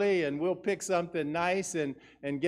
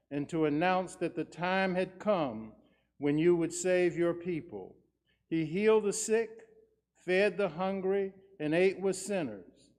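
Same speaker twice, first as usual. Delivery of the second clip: solemn, measured prayer voice; liturgical prayer. Acted. Words of institution prayer.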